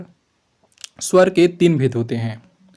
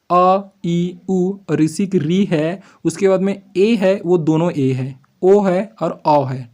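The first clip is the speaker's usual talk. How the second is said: drawn-out long vowels; slower than usual. Shown as a demonstration. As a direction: stretch each vowel, slow. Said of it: "ह्रस्व से दुगना समय लगता".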